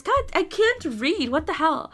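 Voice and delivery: high, loud self-scolding; real frustrated outburst at a reading slip; exasperated at self. Real, not acted. Frustrated by own misreadings.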